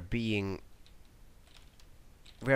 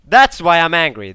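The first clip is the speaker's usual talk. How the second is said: loud, higher angry outburst; 6 semitones higher, 14 dB louder than usual. Real, not acted. Gamer venting anger at air support. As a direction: bark it out, fed up. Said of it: "a bit more angry than usual".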